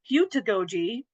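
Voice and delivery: hutugogi said as hyoo-tuh-go-jee, rising at the end; proper pronunciation. Shown as a demonstration. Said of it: "the proper pronunciation of that word".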